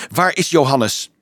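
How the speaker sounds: mildly shrill demand; a touch of shrillness; shrill question. Acted. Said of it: "vroeg Frida schril".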